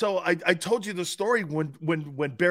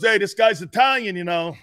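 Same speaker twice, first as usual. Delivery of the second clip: mock grandfather; 5 semitones higher, 7 dB louder than usual. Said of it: "My grandfather goes".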